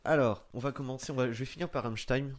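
voix lointaine, loin du micro; far from mic. Real, not acted. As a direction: parle fort mais loin du micro. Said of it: "je suis loin du micro". (voix loin du micro)

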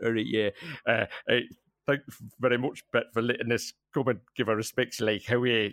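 indistinct, hammed-up Geordie accent; mumbled stereotype Geordie accent. Geordie fan mumbles condolences to grieving fiancée, caricature Geordie accent. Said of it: "just mumbles in this sort of stereotype accent".

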